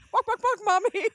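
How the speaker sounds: put-on high squeaky little kid calling for mommy; toddler voice. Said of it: "He couldn't say chicken".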